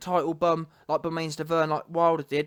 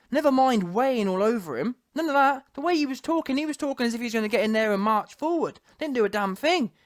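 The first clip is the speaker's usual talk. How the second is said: usual speaking voice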